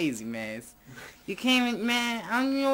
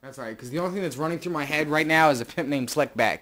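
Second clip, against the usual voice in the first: pimp voice; 5 semitones lower, 5 dB louder, faster than usual. Acted. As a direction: talk like a slick pimp. Pimp voice, far timbre.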